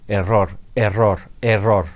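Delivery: lightly robotic, slow repeated error message; mock computer voice. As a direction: imitate an old computer alert, mildly. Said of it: "salía antes mucho en los ordenadores". (voz de ordenador imitada, ligera y lenta)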